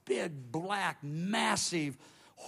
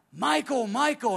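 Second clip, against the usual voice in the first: high, urgent call for Michael; retold cry for help; imitated crying out; 6 semitones higher, 5 dB louder than usual. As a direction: call the name out, pitch raised. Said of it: "then I cried out".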